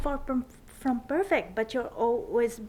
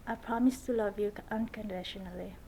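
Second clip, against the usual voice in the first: saying wedding vows; 3 semitones lower than usual. Real, not acted. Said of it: "would you repeat after me?".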